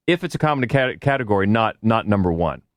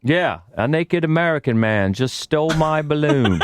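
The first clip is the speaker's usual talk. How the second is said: bad British accent; 5 semitones higher than usual. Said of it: "your bad British accent".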